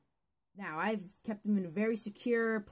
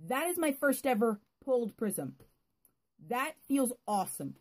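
excited; 2 semitones higher, 3 dB louder than usual. Real, not acted. Still thrilled about the rare pull.

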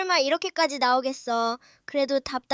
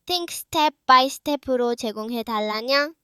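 slow; 3 dB louder, much slower than usual. Acted. Quoting prompt to GPT.

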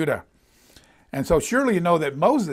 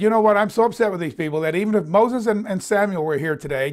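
mildly upset, pitched up at the start; understated exasperation in a retold quote; upset God; 2 semitones higher than usual. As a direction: act out a fed-up God, lightly. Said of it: "He was so upset".

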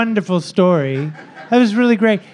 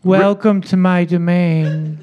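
slow, grand queenly greeting; slow regal welcome; 2 semitones lower, slower than usual. Acted. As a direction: welcome them slowly like royalty.

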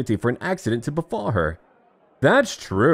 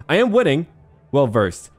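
excited boast; 3 semitones higher, 4 dB louder than usual. Acted. Excited boast while winning.

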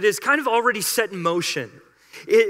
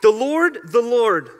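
proclaiming; 4 dB louder than usual. Acted. Proclaiming the divine name.

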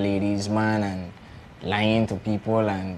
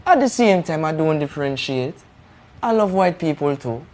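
higher Jamaican-accented voice; a Jamaican hustler, pitched higher; 6 semitones higher, 4 dB louder than usual. Shown as a demonstration. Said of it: "he will give you a little snippet".

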